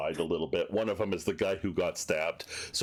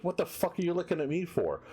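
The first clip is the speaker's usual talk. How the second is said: thug voice; 9 semitones higher than usual. Acted. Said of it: "he goes like".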